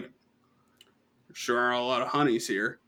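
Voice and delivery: a hint of a slow, lecherous drawl; drunk umpire. Drunk umpire eyeing the girls, slow lightly leering voice.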